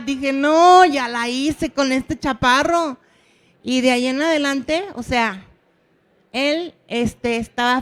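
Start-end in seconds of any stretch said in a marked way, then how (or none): 0.3-3.0 triumphant joy. Retold or imitated. Teacher celebrating a breakthrough with her pupil, loud and joyful. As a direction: celebrate like you just won.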